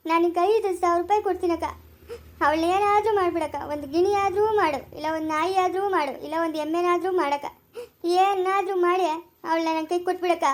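acted weepy begging; whining, tearful appeal; tearful pleading. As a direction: plead through mock tears. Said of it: "ಅಳ್ಬೇಡ, ಸುಮ್ನೆ ಇರು".

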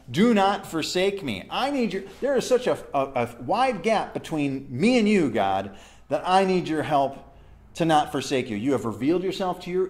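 humble plea. Acted. Preacher voices the psalmist begging God, humbly pleading. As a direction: beg God with rising intensity, easing toward the end. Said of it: "Do you see the humility in that?".

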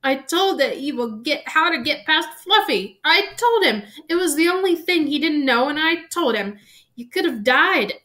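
loud, high blubbering in character; tearful wailing. A narrator's reading. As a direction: wail out a confession full of remorse. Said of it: "and burst into tears".

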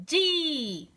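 "Yi" drawn out high, falling away; "Yi" as one stretched, sliding syllable; blended syllable. Shown as a demonstration. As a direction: blend consonant and vowel into a long "Yi". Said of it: "Las dos juntas suenan yi".

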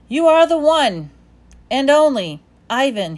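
high, loud encouraging dog voice; cheering dog. A narrator's reading. Bob cheering up Ivan, high and loud. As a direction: pump him up, high and proud.

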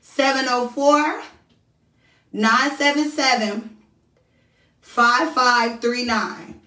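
each digit spoken slowly and clearly; slow dictation. Shown as a demonstration. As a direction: read the number out slowly. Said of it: "can somebody type this number for me".

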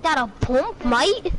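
put-on British "mate"; casual question in a British accent. Asking a teammate for a pump, British accent. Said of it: "Keep speaking like that".

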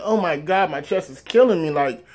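half-acted crying in pain; retold crying plea. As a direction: imitate a pained, tearful plea for help. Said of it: "I'm crying like".

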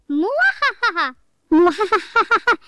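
slow evil villain cackle; slow theatrical villain menace. Acted.

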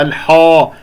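الحاء with the h darkened toward ho; heavy haa. Shown as a demonstration. Teacher shows the common error, heavy haa. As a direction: wrongly thicken الحاء. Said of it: "لا تفخم الحاء".

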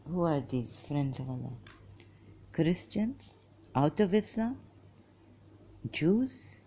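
talking around a piece of chewing gum; words shaped by gum in the mouth. Real, not acted. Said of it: "chewing gum in my mouth".

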